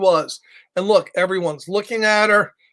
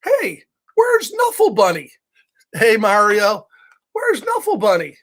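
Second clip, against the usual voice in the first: mom asking. Acted. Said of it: "the first thing the mommy said".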